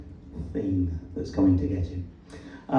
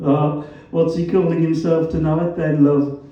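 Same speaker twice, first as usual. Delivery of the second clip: loud, raised Black Country jibe; Black Country accent; 6 semitones higher, 6 dB louder than usual. A narrator's reading. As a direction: needle him in broad Black Country. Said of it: "His black country accent was as vowelish as ever".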